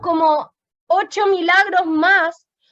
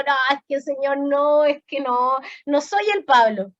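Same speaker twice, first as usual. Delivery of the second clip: reluctant protest; 4 semitones lower than usual. Retold or imitated. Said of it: "Así estaba yo en el asiento".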